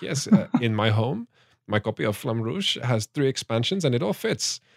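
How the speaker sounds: put-on rough, vague Nordic accent. Retelling a man's answer to people online, in a Nordic accent. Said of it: "I'm going to give this the sort of that Nordic accent".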